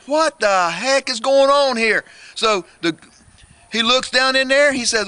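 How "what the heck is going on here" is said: baffled mama. Acted. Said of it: "she says".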